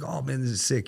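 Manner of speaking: high, thrilled imitation; imitating an excited friend; hyped admiration. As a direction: gush like a hyped-up buddy. Retold wired friend admiring space.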